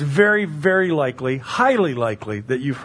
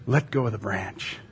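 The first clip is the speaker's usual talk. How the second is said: calm command; 7 semitones lower, 5 dB quieter than usual. Acted. God's calm command in the story.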